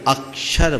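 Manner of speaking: अक्षर with weight on the opening "ak"; stress on अ. Shown as a demonstration. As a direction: press the first syllable of अक्षर into the क्. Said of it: "हमने अ पर जोर दिया".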